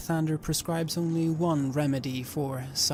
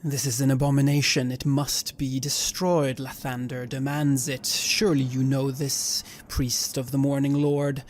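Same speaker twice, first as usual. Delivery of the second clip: firm, louder pronouncement; stern righteous declaration; 5 dB louder than usual. Acted. Cleric to the priest, stern declaration. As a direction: lay down holy law.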